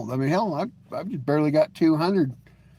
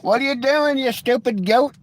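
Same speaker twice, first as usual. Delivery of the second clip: raised, exasperated yell at the road; yelling at a goat; 8 semitones higher, 4 dB louder than usual. Real, not acted. Driver yelling at a goat on the road, annoyed and loud. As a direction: shout it out the window at the goat.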